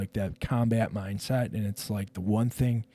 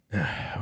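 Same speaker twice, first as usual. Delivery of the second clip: resigned sigh; 4 semitones lower, 3 dB quieter than usual. Retold or imitated. Acting resigned reply to his wife.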